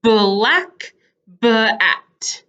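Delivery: BLACK and BAT said slowly, leaning on the B; careful teacher's Black, bat with a clear opening B; emphasized first sound. Shown as a demonstration. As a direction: stretch out Black and bat, word by word. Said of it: "Just the sound".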